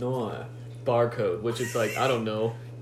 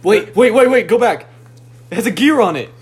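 excited; 9 semitones higher, 11 dB louder, faster than usual. Real, not acted. Sudden excited discovery.

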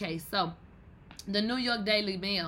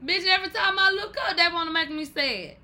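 fed-up complaint; 8 semitones higher, 6 dB louder than usual. Real, not acted. Mock complaint after laughing.

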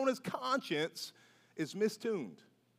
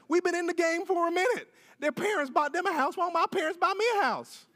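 jealous complainer; 7 semitones higher than usual. Retold or imitated. Jealous voice about newlyweds.

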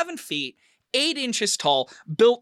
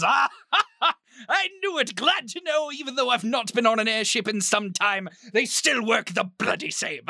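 higher, laughing through the words; laughing headmaster; 5 semitones higher than usual. Acted. Headmaster laughing at the airship mechanic's rag. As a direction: chuckle as a jolly old headmaster.

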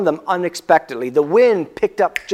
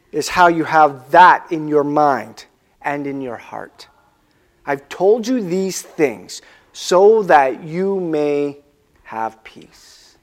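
slow tender words; 4 semitones lower, slower than usual. Retold or imitated. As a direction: reassure them gently. Jesus speaking to disciples, slow.

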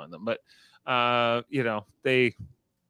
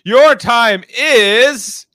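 slow stiff robot voice, much louder and higher; 9 semitones higher, 10 dB louder, much slower than usual. Retold or imitated. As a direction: drone out each word like a machine announcer. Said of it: "I am a robot".

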